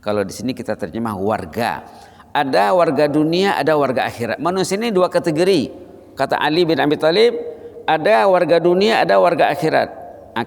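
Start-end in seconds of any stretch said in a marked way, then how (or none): 2.3-9.9 raised, forceful preaching; emphatic preaching. Acted. Preacher stressing two kinds of people, raised. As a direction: drive the point home.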